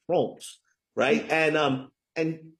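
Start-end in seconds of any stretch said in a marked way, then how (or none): 0.1-0.6 France with a rounded, French-style vowel; French pronunciation of France. Shown as a demonstration. Telling the host how you say it, French pronunciation of France. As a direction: say France as "Frohnce". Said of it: "that's how you say it".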